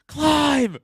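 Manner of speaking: loud high bark in his face; yelling order. Pretend. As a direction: scream the command up close. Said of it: "He's yelling in your face".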